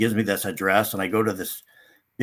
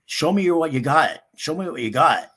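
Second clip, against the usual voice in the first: creepy host voice; 5 semitones higher, 4 dB louder than usual. Retold or imitated. Creepy guy demanding, retold.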